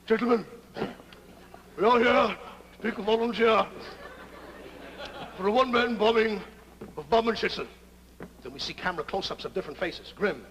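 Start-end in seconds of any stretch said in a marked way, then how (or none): 0.1-7.7 speechify like a mildly pompous officer; lightly voiced colonel. Colonel addressing his men, lightly voiced commanding tone. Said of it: "Colonel Brack is making a speech".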